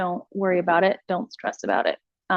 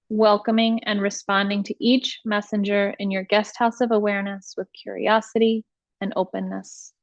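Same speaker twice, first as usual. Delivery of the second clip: measured meditation voice, long pauses between instructions; guided meditation. Acted. Teacher leading listeners through iRest practice, guided meditation voice.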